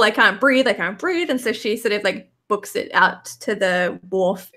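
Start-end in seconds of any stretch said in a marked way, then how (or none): 0.0-0.7 louder, urgent gasping plea; a panicked cry for air. Acted. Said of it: "by saying, like". 0.7-1.3 a worn-out, fading plea; fading gasp. Acted. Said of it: "by saying, like".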